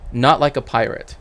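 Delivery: loud, firm no to the video; emphatic correction. Real, not acted. Correcting a video clip, loud and emphatic. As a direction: push back hard on the claim. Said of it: "sounded like a combination of a pirate".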